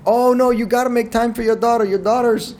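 badly faked Asian accent, pleading; attempted Asian accent. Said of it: "my attempt at an Asian accent".

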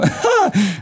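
short, high burst of laughter; high, amused cackle. Real, not acted. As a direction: crack up at your own story. Laughs at his own punchline.

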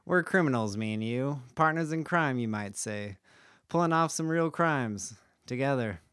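hint of an old-time radio narrator; old-timey voice. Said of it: "I kinda wanna do this part in, like, a old-timey, old-timey voice".

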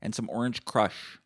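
mock eager order. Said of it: "I'm like".

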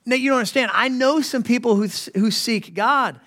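a lightly voiced objecting listener; imagined objector. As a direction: protest like a doubter in the pews. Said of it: "And you may say".

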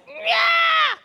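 high, sharp exclamation; mock angry yell. Preacher mimics someone snapping back at his question. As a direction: snap back in mock outrage. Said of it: "and it was like".

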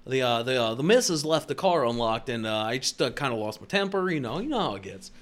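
lightly put-on polite, hesitant customer; white customer voice. Excusing his lost temper to officer, white customer voice. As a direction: explain sheepishly in a courteous put-on voice. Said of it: "straight up white customer voice".

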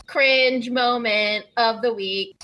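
segment announcer. Pretend. Host introducing the cringe segment, drawn-out announcer call. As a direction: announce it like a recurring show jingle.

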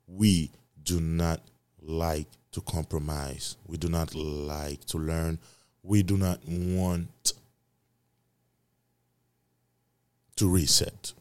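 slow, lightly Jamaican-accented delivery. Real, not acted. Podcaster preaching to listeners about humans refusing to change, slipping into Jamaican accent. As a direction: draw it out with a touch of Jamaican accent. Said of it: "I'm going to Jamaican accent".

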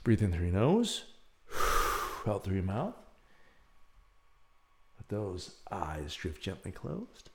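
calm meditation lead; guided relaxation. Acted. Leads a breathing exercise.

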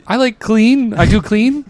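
meek newcomer voice, eager to please; timid hushed maid. Retold or imitated. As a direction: say it like a shy new maid. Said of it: "You sound like a maid that just came into the country".

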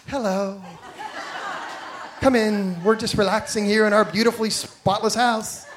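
mock-breezy welcome through a laugh; fake calm host. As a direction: pretend everything is relaxed, laughing. Host faking calm to guests.

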